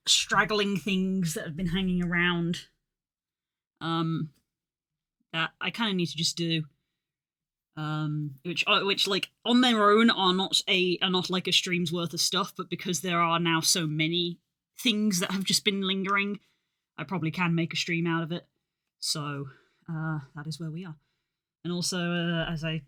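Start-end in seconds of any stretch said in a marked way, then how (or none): 0.1-6.6 breathless from running upstairs; panting a little between words; out of breath. Real, not acted. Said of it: "I sound slightly out of breath". 8.4-18.4 breathless, pushing words out; catching breath while talking. Real, not acted. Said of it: "I sound slightly out of breath".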